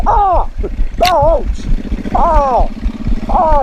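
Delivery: hammed-up ouch cries while playing with the dog; mock yelps of pain. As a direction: yelp as the dog nips you. Dog nipping him, mock pain.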